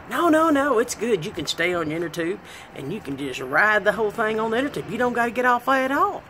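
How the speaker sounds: high insistent coaxing; coaxing friend. Retold or imitated. Friend coaxing her onto the ride, high and eager.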